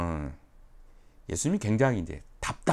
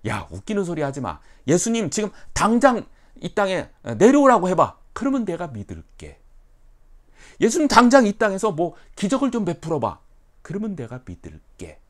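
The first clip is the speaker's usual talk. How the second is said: much higher, louder taunting; mocking scoff; 8 semitones higher, 10 dB louder than usual. Scoffer mocking the gospel, loud taunting. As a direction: dare Jesus to prove himself. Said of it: "복음을 전할 때에 이렇게 반응하는".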